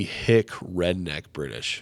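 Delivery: slow, drawled hick British; botched British with a redneck twang; redneck British accent. Shown as a demonstration. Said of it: "if I do the British".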